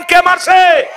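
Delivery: high, loud shouted question. Shown as a demonstration. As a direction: shout it out to rouse the crowd. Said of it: "আরো জোরে বলেন". (জোরে চিৎকার করে প্রশ্ন)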